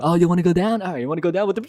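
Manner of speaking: a hint of a teasing ride announcer; mock the rider playfully. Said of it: "the announcing guy was like".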